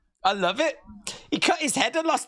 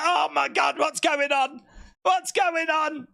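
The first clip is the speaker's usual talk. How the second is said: higher, alarmed yelling; mock panicked victim; 5 semitones higher than usual. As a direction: play the stunned opponent. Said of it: "You'd be like".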